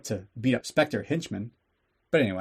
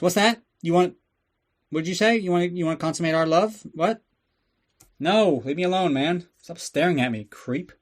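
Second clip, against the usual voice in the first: mock eager Bond; 4 semitones higher than usual. Mocking Bond's eager overreactions.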